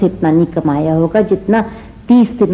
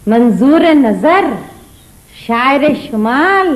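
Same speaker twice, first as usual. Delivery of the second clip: slow, grandly announced titles; drawn-out mocking fanfare; mock announcement; 2 semitones higher, slower than usual. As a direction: announce him with sarcastic pomp. Wife mockingly announces the poet.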